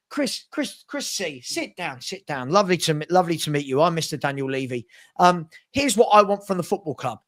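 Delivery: a light take on the chairman; mock Levy. Chairman greets new manager, lightly voiced. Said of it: "Let me play the scenario out".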